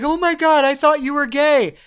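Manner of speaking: high, loud imitation of a mocking woman. Woman mocking a young man before her friends, loud and high. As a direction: jeer it loudly for the friends to hear. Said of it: "straight up mocking this guy".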